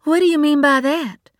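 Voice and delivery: bristling and confronting her sister; a rising flash of anger; angry challenge. A narrator's reading. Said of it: "anger lifting through her like a wave".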